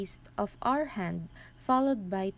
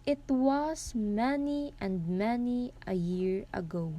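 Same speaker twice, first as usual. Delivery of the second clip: "It was many and many a year ago" read out with a measured beat; metrical verse reading. Shown as a demonstration. Presenter reading Poe to classmates, "It was many and many a year ago" in meter. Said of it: "So let's read it".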